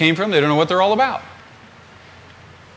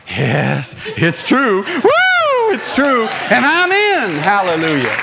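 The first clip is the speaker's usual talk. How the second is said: jubilant conviction; much slower than usual. Acted. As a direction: celebrate like a doubter suddenly convinced. Acts out doubter becoming convinced, rejoicing.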